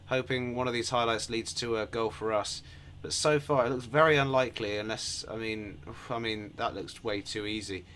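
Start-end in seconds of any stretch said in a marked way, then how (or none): none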